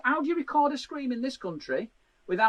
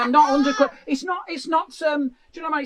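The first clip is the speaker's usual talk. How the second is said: indignant rant; 3 semitones higher, 5 dB louder, faster than usual. Real, not acted. Ranting about being stopped.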